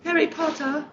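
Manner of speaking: Harry Potter in a put-on British voice; playful fake British accent; mock British accent. Shown as a demonstration. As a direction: say it like a Brit. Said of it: "Nailed it".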